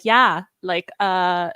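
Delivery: loud imitation Minnesota accent. Friend recalls a vacation with Minnesotans, Minnesota accent. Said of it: "by the end of it, I was saying".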